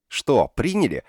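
high, loud excited squeal; delighted squeal. Acted. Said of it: "восторженно взвизгнула Динка".

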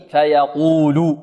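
فيقول drawn out slowly with a thick ق; round, heavy ق and long vowel in فيقول; heavy qaf. Shown as a demonstration. Teacher modelling the qaf for students, heavy slow demo. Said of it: "قافنا حكمها التفخيم".

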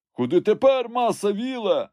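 high, loud servant's call. A narrator's reading. Servant up a tree asks his master where next, high call.

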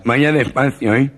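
fussy nasal passenger pleading; nervous comic nasal voice; gangoso voice. Retold or imitated. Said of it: "Y dice al taxista".

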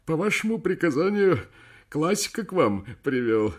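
high, loud deferential officer; respectful report. Acted. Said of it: "почтительно сообщил".

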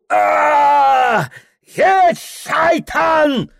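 high screaming roar; wild war cry. A narrator's reading. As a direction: charge screaming. Ibragim attacks.

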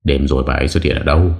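asked under the breath. Acted. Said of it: "hỏi trong hơi thở".

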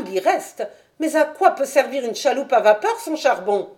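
a boatman's wife worrying about her husband; Mrs Smith. Acted. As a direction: fret aloud like an anxious wife. Landlady voiced by narrator.

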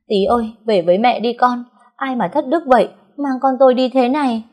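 high, loud tearful lament. A narrator's reading. Mother lamenting her missing child aloud, high tearful wail. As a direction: wail for the lost son. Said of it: "càng khóc to hơn".

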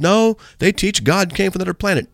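high-pitched retort at ordinary volume; retold arguing back. Preacher answering a heckler in a truck, retold arguing back. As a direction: act out calling back in an argument. Shouted argument with the driver, retold.

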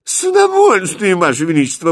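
very high, loud eager reply; delighted to oblige; beaming. Acted. Prince eagerly answers the king, beaming and loud. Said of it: "просияв, ответил Христиан".

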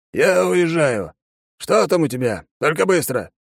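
lightly voiced gruff commander, hurried; impatient colonel. A narrator's reading. Colonel to the young soldier, impatient. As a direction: cut it short, no time.

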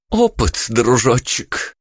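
high, drawn-out gloating; smug triumph; triumphant tease. A narrator's reading. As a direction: crow over him, slow on the last word. Triumphant Vika.

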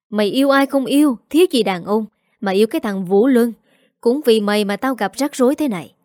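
a lightly voiced furious father yelling; mild mock roar at his daughter; angry shout. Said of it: "chỉ thẳng mặt con mà quát".

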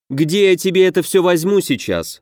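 high, testy snap at the half-orc; snapping irritably. A narrator's reading. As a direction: bristle and snap back. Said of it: "окрысилась Тифнут". (огрызаясь раздражённо, повыше)

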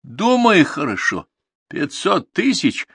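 high, slow distant call; calling from afar. A narrator's reading. Stranger by the car repeats his offer, calling out. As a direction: stretch the offer out across the dark.

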